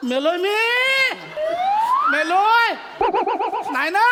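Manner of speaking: indignant shout. Acted. Politician shouts he is not dead.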